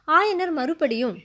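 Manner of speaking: ordinary delivery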